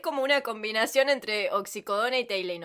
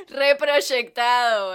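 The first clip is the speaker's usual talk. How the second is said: slow, stretched through laughing tears; crying with laughter; laughing hard; 6 dB louder, much slower than usual. Real, not acted. Breaking up over a joke.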